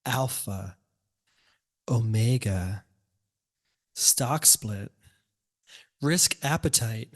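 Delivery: portentous reading of single terms, long pauses between; dramatic put-on voice. Host hooking listeners with investment terms, dramatic put-on voice. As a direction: intone each term like a grand announcement. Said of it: "doing it in that, uh, that voice".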